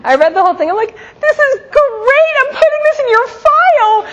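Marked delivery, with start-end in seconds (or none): 1.2-4.1 put-on amused mother to her teen daughter, laughing; laughing tease. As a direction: laugh it out like a teasing mom.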